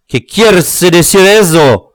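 high, loud question in Spanish; indignant exclamation. A narrator's reading. Dwarf baffled by the interruption, indignant cry. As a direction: demand an explanation. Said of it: "s'écria-t-il".

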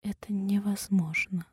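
stunned, breathy whisper; barely able to say it; shocked whisper. A narrator's reading. Heroine whispering in disbelief to the nurse.

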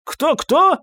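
put-on very high, puzzled old voice; high-pitched elderly query; querulous old man. A narrator's reading. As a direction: ask as a hard-of-hearing old man. Trembling old man asks who.

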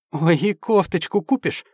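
put-on high, gushing girly squeal; delighted. A narrator's reading. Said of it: "обрадовалась Анюра".

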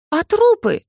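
very high, indignant cry; angry demand. A narrator's reading. Ikey to the master about corpses, angry. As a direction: demand it in anger. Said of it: "разозлилась Икей".

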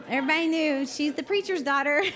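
talking through real laughter; words breaking up with laughs; laughing. Real, not acted. Preacher laughing at her mom's shout in the stands.

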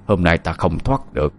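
giọng quỷ ám trầm, nhỏ; nói như quỷ nhập vào người. Acted. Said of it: "Một giọng nói từ trong người". (giọng quỷ ám trầm thấp)

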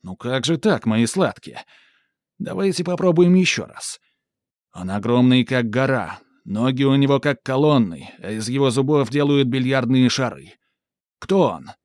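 loud, impatient ringmaster; losing patience with the kids; irritated showman. Acted. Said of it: "Сарацин снова начинает сердиться". (раздражённый конферансье)

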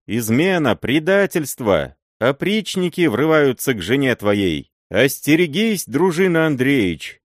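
urgent warning shout. A narrator's reading. Serebryany warns the boyar of the oprichniki, shouting high. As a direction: raise the alarm at full voice.

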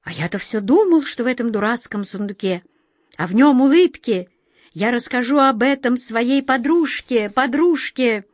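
lightly voiced talking breeze; carefree airy voice. Airy voice spreading the secret, lightly carefree. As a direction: chatter on with a touch of carefree glee. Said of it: "Воздушный голос продолжал".

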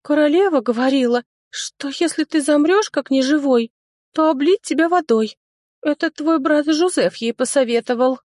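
put-on high, tearful childlike voice; crying dryad explaining the bucket; sobbing dryad. A narrator's reading. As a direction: snivel it through tears. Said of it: "Сквозь всхлипывание".

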